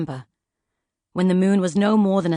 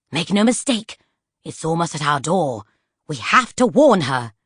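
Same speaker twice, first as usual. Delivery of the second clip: Poisons voice; 2 semitones lower than usual. Acted. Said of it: "the voice of the pocket compendium of poisons".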